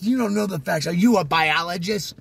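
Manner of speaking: lightly voiced sneering skeptic; a hint of a scoffing conspiracy type; mocking anti-masker. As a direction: parody the know-it-all who doubts the experts. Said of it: "you sound like the people that fucking bug out about".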